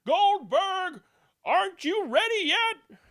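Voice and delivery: high, loud impatient summons; impatient call. A narrator's reading. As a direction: call through the door. Someone calls for Goldberg.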